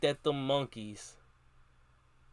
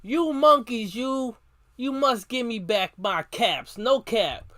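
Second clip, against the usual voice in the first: much higher, loud furious shout; 6 semitones higher, 5 dB louder than usual. A narrator's reading. Peddler stamping both feet, shouting at the monkeys for his caps. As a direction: yell at them at the top of the voice. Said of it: "stamped both his feet and shouted".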